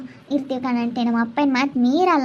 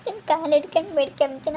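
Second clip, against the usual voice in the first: crying plea; 3 semitones higher, 3 dB quieter than usual. Acted. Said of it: "ಸುಪ್ಪು, ಅಳ್ಬೇಡ".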